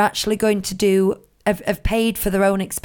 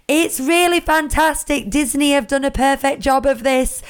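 mock forced gushing; 4 semitones higher than usual. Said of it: "gone on with a, like, scared look in their eye".

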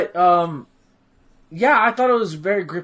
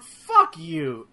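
much higher, indignant curse; mock outrage. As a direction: spit it out at the traitor, high. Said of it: "I let this guy die".

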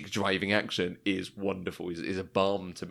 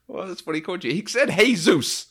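acted retort; 9 semitones higher, 4 dB louder than usual. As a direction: insist on the name in a high mock voice. Retold dialogue reply.

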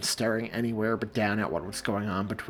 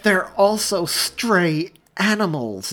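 higher, louder, slow and strained; through gritted teeth; 8 semitones higher, 6 dB louder, slower than usual. A narrator's reading. Mary snapping back at Joey, teeth gritted. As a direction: grind it out through clenched teeth. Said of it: "through gritted teeth".

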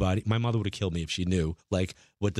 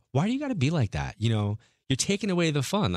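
mock complaining mom; 6 semitones higher than usual. Mom scolds him in story.

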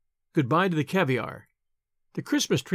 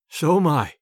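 gentle laugh; 4 dB louder than usual. A narrator's reading. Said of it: "he laughed gently".

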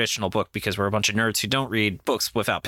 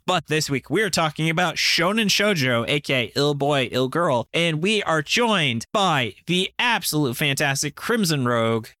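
announcer voice; 3 semitones higher than usual. Real, not acted. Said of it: "I'm using my announcer voice".

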